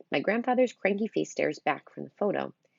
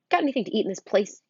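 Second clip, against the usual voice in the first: louder demanding voice; 6 semitones higher, 6 dB louder, faster than usual. Acted. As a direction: demand food. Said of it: "he demands".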